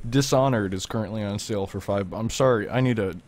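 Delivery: talking with a mouthful; mouth full. Real, not acted. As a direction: speak through a bite of sandwich. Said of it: "I need to not talk with my mouth full".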